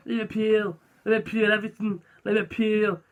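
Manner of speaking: tentative Scouse practice; attempted Scouse accent. Comedian struggling to find a Scouser's voice, attempted Scouse accent. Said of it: "Scouse is hard for me to do".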